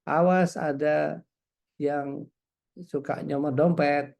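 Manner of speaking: slow, drawn-out mock warning; imitated warning call. Woman with megaphone warning tourists about pickpockets, slow imitated call. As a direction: imitate a public warning call, stretching the words slowly. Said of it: "Dia cuma mengatakan".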